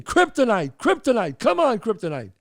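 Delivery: high, eager yells for the horse; root the horse home from the stands; cheering on a horse. Retold or imitated. Friends at the racetrack cheering their horse on. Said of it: "And we're screaming".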